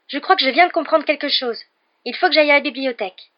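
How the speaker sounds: breathless with discovery; excited realization. Acted. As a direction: Hermione struck by a sudden idea. Hermione's sudden realization.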